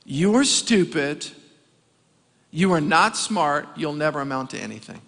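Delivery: a preacher quoting a cruel teacher, lightly voiced; harsh teacher. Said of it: "a teacher literally told him this".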